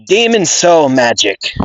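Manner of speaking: high-pitched spell name, a tentative character voice; Marilona voice. Acted. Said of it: "trying to find that, like, Marilona voice".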